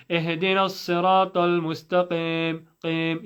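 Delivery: "اهدنا الصراط المستقيم" rushed, ending in a slack "qem"; quick careless "اهدنا الصراط المستقيم" with eh for ee; common mispronunciation. Retold or imitated. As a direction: imitate the common slip, loose vowels in "المستقيم". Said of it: "A lot of people say".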